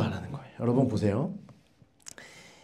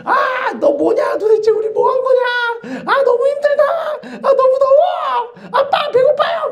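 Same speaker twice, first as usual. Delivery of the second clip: put-on much higher, slow whiny child voice; childish whining; slower than usual. Preacher mimics Israelites whining to dad, high childish whine. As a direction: whine like a hungry, tired kid.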